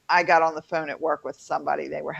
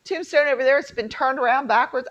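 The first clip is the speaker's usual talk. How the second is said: higher-pitched, lightly acted groundskeeper; 8 semitones higher, 4 dB louder than usual. Roommate retells the graveyard groundskeeper's tour, higher lightly acted voice. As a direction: imitate a chatty groundskeeper, pitched up. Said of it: "And he was telling us".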